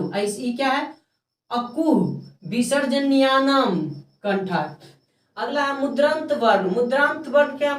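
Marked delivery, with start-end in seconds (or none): 1.5-4.6 slow, drawn-out syllables with a falling final word; measured rule recitation. Shown as a demonstration. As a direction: recite it slowly like a rule to memorise. Teacher recites the Sanskrit rule.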